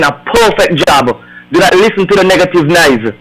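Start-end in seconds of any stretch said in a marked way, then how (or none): none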